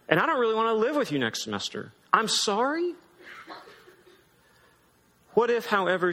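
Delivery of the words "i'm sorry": mocking echo. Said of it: "I'm frustrated".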